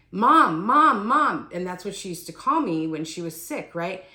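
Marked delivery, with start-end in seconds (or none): 0.1-1.5 loud, high cries for Mom; retold yelling. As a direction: call out urgently, imitating mother's yell. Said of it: "starts yelling".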